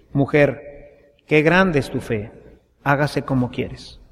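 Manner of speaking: low, softened, gentle reading; hushed, low words of approval; tender granting. A narrator's reading. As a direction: let it settle down quietly, with tenderness. Jesus tenderly grants woman's plea.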